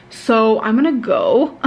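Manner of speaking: sleepy, drowsy voice; nodding off. Real, not acted. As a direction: talk while half asleep. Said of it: "falling asleep as I speak".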